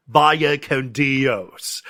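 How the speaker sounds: hugely drawn-out mock movie line; hammed-up, very slow delivery; bad actor. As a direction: stretch every word like a bad actor. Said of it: "again, bad actor, he's just all like".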